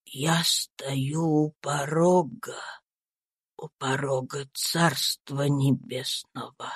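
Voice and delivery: dying Tom comforting himself, a faint slow whisper; weak dying voice. A narrator's reading. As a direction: barely breathe the words out. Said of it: "той силой и страстью".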